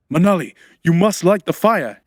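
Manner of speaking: urgent shout. A narrator's reading. Man shouting at helper to light the fire. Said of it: "he shouted".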